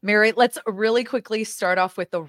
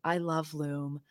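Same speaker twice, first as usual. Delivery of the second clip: commercial voice. Shown as a demonstration. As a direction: read it like a sponsor spot. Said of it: "in my commercial voice is".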